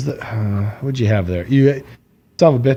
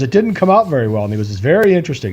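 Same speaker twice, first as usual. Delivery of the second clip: mock nerdy musing; 4 semitones higher, faster than usual.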